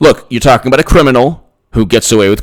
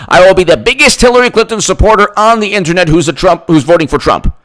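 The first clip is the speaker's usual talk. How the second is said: mock Clinton fan; 5 semitones higher than usual. Mocking the Clinton camp.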